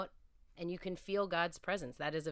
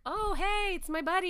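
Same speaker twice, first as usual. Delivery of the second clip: cheery greeting; 14 semitones higher, 6 dB louder than usual. Retold or imitated. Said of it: "And I was like".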